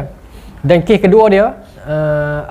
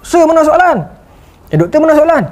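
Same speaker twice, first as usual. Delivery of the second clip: higher, louder anxious student plea; panicky students; 10 semitones higher, 3 dB louder than usual. Retold or imitated. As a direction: plead like a worried student. Pelajar panik cari soalan peperiksaan. (pelajar cemas merayu, lebih tinggi dan kuat)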